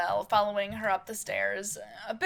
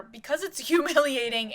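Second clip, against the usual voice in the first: snapping back; 4 semitones higher, 4 dB louder than usual. Acted. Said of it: "quickly snapping back at her".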